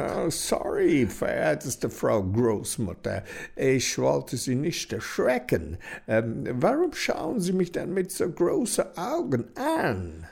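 put-on flustered, stammering young man; flustered hunter. A narrator's reading. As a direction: apologize in a nervous fluster. Hunter apologizes to grandma.

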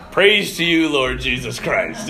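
low, slowing liturgical response; rote congregational response. Retold or imitated. Congregation answers the Gospel without listening, rote response. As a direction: recite it by habit, like a congregation. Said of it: "it'd be like".

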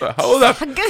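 high, laughing Hausverbot; laughing repeat. Real, not acted. Telling a friend about the house ban, laughing.

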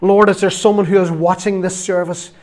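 earnest prayer in spaced phrases; public prayer. Real, not acted. Preacher praying for hesitant listeners in church, public prayer. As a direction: address God firmly, pausing between phrases.

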